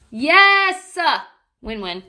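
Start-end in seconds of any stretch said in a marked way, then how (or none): 0.1-1.0 loud, high triumphant yes; excited cheer. Real, not acted. Parent celebrating phone time on the bathroom floor, excited. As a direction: cheer the win.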